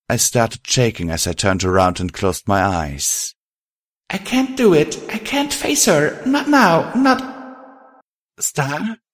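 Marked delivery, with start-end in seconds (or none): 4.1-7.2 very high, distraught inner voice; panicked. A narrator's reading. Star unable to face the ghost, panicking. 8.4-9.0 small, high questioning voice; timid. A narrator's reading. Ghost calling from behind Star, timidly. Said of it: "Her timid voice rang out".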